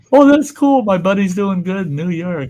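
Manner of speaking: high-pitched, pleased exclamation; acted delight. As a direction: play an old guy delighted by news. Acting out old pigeon man's delight.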